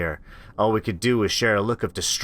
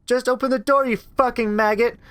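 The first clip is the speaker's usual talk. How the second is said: snarling turn; 13 semitones higher than usual. Acted. Creature losing patience with Rachel, vicious. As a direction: drop the sweet act and snarl.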